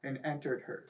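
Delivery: mock-dramatic reading of a silly story; story narration. Reading raunchy fan fiction aloud to laughing friends, mock-dramatic narration. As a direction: read it out like a serious story, half laughing.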